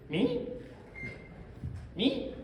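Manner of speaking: high-pitched, incredulous little question; mock surprise. Reacting to the dean praising his speech, mock surprise. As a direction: squeak it out in modest disbelief.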